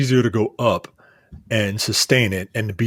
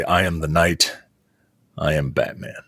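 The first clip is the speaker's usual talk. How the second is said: lower, gruff mock Batman growl; 7 semitones lower than usual. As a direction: drop into a lightly done caped-crusader rasp. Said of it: "doing it in the Batman voice".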